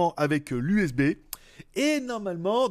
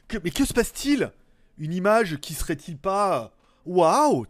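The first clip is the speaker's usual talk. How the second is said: mock amazement; 3 semitones higher than usual. Mock viewer's amazed thoughts.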